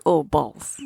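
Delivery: low-pitched, badly faked Russian accent; dismayed mock Russian accent. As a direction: attempt a terrible Russian accent. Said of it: "That was a terrible accent".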